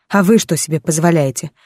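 indignant, stress hard on "вы"; angry retort. Acted. She throws his words back.

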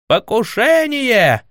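drawn-out, high joyful cry; joyful yell. A narrator's reading. Prince crying out happily to deflect talk, joyful yell. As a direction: yell it with glee. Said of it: "радостно завопил Владимир".

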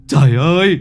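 anguished cry. A narrator's reading. Father collapses at the doorway, wailing "Trời ơi". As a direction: wail "Trời ơi" out in grief. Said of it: "anh quỳ gục ở bậu cửa".

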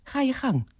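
high, generous urging; go-ahead pitched well up; generous offer. A narrator's reading. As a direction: wave them on generously, voice lifted. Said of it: "zei hij gul tegen haar".

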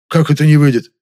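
loud, shocked question. Acted. Shocked director hearing the deal has failed, loud alarmed question. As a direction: demand it in alarm.

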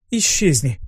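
short hissed dismissal. Acted. Succubus sending the newsboy away, hissing. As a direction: hiss it to drive the pest off. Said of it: "прошипела Лерра".

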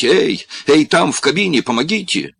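loud high yell across the shop; shouting for help. Acted. Corlis yells to the crane operator for help, loud shout. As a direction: call out to the crane cab, shouting.

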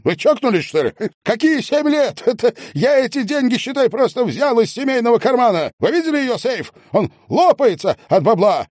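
very high, indignant protest; panicked outrage. A narrator's reading. Medников protesting the sentence, panicked and outraged. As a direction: protest frantically.

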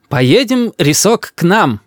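high-voiced doting grandmother; grandmother coaxing. A narrator's reading. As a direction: coax the grandchild along. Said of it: "говорит бабушка Рису".

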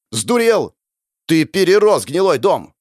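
high, shouted retort; unrelenting anger. A narrator's reading. Hero shoved back against the door, shouting furiously. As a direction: fire back, refusing to calm down. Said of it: "не думая успокаиваться".

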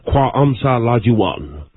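alien phrase, each syllable slow and deliberate; "Qua amsa lajuan" spoken slowly and solemnly, like a sacred alien proverb; slow made-up alien saying. Pretend. Prank caller recites an alien proverb to Mike, slowly and solemnly. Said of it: "the Biavians, uh, have a saying".

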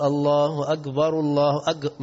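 muezzin-style "الله أجبر" called out slowly; wrong adhan pronunciation. Shown as a demonstration. Teacher imitates a mistaken muezzin, mock call to prayer. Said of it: "ما تنفعش".

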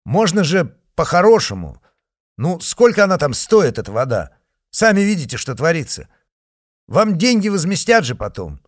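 loud, high pleading through glass; raising his voice. A narrator's reading. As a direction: raise the voice to be heard through glass. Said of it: "повышая голос".

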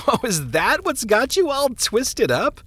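high, amused laugh into the words; laughing minister. A narrator's reading. Minister laughs off a troubled man's fear, amused. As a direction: laugh off the worry as you speak. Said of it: "the minister laughed".

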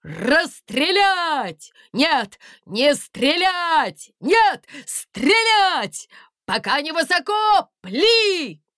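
loud, slow, dithering commands; flip-flop your orders in panic; flustered orders. A narrator's reading. Guard chief shouting confused fire orders.

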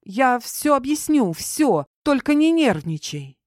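high, anxious explaining; nervously rattled-off reassurance; hurried babbling. A narrator's reading. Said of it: "зачастила она".

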